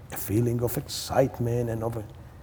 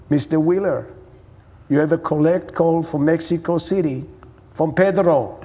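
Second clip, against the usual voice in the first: higher-pitched imitation of a phone operator; operator announcing; 4 semitones higher, 3 dB louder than usual. Imitating operator announcing collect call.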